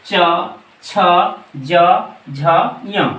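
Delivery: च, छ, ज, झ, य each said apart with the tongue on the palate; palate sounds demo. Shown as a demonstration. Teacher sounds out च छ ज झ य for students, spaced palate demo. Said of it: "उच्चारण करके देखते हैं".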